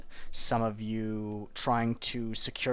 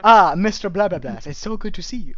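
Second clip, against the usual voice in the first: mock grand greeting; 7 semitones higher, 11 dB louder, faster than usual. Mock greeting with garbled name.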